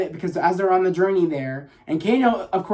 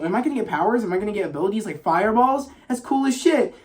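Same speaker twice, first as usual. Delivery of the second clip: higher, eager rush of imitated questions; hyped up; 4 semitones higher, faster than usual. Kano hoping for fireball powers, retold all hyped up. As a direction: act out giddy excitement, rising to the finish. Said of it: "Kano's all hyped up".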